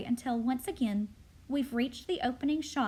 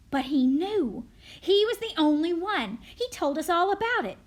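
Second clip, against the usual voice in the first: loud, raised-pitch insistence; insistent accusation; 4 semitones higher, 7 dB louder than usual. Acted. Crowd turning on the boy, loud and accusing. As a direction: press the charge forcefully.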